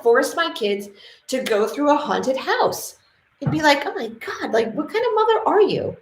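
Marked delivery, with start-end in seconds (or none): 3.9-6.0 outraged onlooker. Pretend.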